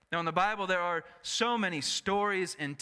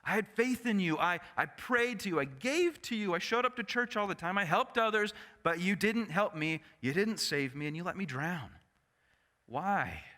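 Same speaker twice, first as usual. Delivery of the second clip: higher, pressing complaint that sinks at "Why"; indignant demand to God; 4 semitones higher than usual. Retold or imitated. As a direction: confront God with your grievance. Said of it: "stands before God and says".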